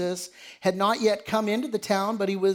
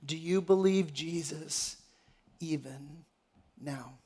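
soft, sinking lower to a near-silent close; hushed question; 4 semitones lower, 7 dB quieter than usual. Real, not acted. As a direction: pose it quietly and let the last words fall away. Probing question to the congregation.

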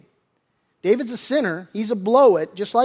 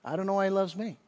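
hushed wonder; 9 dB quieter, faster than usual. Real, not acted. Preacher admits he can't explain God's love, in hushed wonder. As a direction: drop to a quiet, heartfelt confession.

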